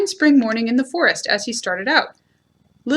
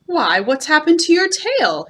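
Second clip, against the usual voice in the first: bright question pitched up, a little louder; surprised; 5 semitones higher, 4 dB louder than usual. A narrator's reading. Pooh notices Eeyore's missing tail, surprised. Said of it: "he said in surprise".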